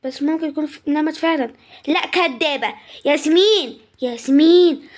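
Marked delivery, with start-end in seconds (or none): 3.1-4.9 loud call to wake someone. Acted. Family calls girl pretending to sleep, insistent call. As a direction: call the name out, louder the second time.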